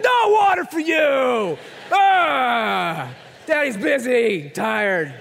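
hammed-up British snap, loud and slow; bad British accent. Tired dad refusing kids water, bad British accent shout. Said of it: "that was a British accent".

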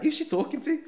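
high, puzzled inner question; baffled thought. Retold or imitated. Thinking to himself, baffled by the probation officer. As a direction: wonder who on earth she is.

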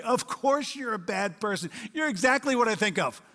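imagined incredulous shout. Retold or imitated. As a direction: voice God's exasperated disbelief, half-shouted. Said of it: "God must shout in the same kind of incredulity".

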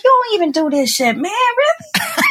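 high, stretched-out incredulous complaint; indignant disbelief. Retold or imitated. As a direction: drag out the really in mock outrage. Told to clean toilets, baseboards.

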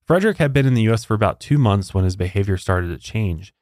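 scripted storytelling with measured pauses; true-crime narration. Acted. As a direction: read the case out as a story.

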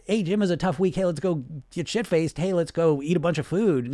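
lightly mocked party-buddy cheer; egging on. Buddy urging Jim to indulge, mock upbeat. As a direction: talk a friend into a binge, lively. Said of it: "Not that. A healthy, positive voice".

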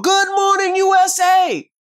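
high, loud on-air greeting; radio host greeting. Retold or imitated. The host imitates his own on-air morning opener, high and loud. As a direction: boom it like a morning DJ.

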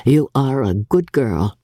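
a lightly voiced gruff father; Mr Bennet, dry. Mr Bennet to his daughter.

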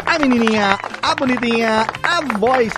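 loud, bright radio host hype; excited announcer. Acted. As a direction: hype up the return on air.

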